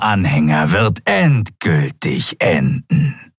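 slow, ominous reptile prophecy; prophetic reptile. Acted. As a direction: savour each word of doom. Draxül prophesies doom. (unheilvolle Echsenprophezeiung)

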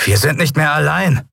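high-pitched, urgent warning; sudden alert. A narrator's reading. Telbo warns his master they are followed, calling out high. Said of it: "rief Telbo plötzlich".

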